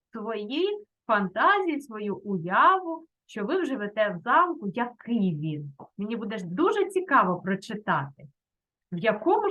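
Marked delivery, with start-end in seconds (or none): 0.1-3.1 повільно. Shown as a demonstration. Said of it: "вчителька пояснює завдання".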